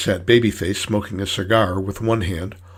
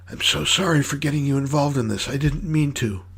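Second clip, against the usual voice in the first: higher-pitched, pleading apology; earnest apology; 6 semitones higher than usual. Acted. Clown to the woman tied behind him, earnestly apologetic.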